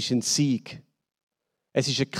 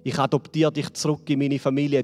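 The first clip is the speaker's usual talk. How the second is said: tender father. Acted. Father speaks tenderly over music.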